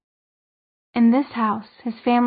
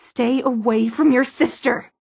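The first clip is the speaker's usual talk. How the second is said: angry warning; 2 semitones higher, 4 dB louder than usual. Acted. Mother warning son away.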